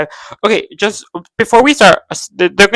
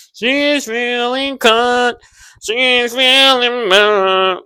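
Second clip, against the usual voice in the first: slow, higher mocking drawl; a hint of mocking a moody heroine; mocking Eleven; 5 semitones higher, much slower than usual. Vlogger mocks Eleven to viewers, in a slow mocking voice. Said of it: "She's like".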